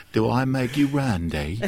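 slow, lightly slurred drunk imitation; mock drunk impression. Co-host imagines a drunk friend at the TV, mock tipsy voice. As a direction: playfully imitate a tipsy TV watcher, drawn out. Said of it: "getting drunk as he's watching us".

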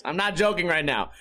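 ordinary talk, nothing marked

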